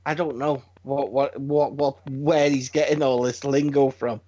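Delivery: low-pitched baffled reply; bewildered missus. Retold or imitated. Wife asked about son's lingo, bewildered. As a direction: answer low, at a loss. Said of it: "I went, she went".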